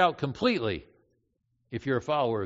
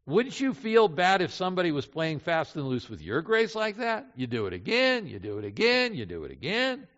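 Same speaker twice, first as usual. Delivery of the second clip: nagging accusation; 3 semitones higher than usual. Acted. Satan keeps accusing the believer.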